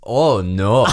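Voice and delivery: put-on drawn-out comic foreign accent; camp German-sounding accent. Playing up to co-host's teasing, camp German accent. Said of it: "sound like a gay German at the moment".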